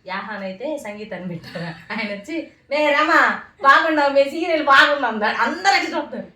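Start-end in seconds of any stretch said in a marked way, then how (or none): 2.7-5.1 higher, louder gushing greeting; voiced transgender relative. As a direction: act out a relative's loud hello at a funeral.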